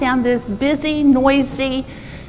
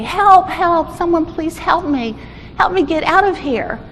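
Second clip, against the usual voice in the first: higher, half-hearted cry for help; mustered-up cry; 4 semitones higher than usual. Acted. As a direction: summon energy for a pleading call. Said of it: "he mustered up the the energy to say".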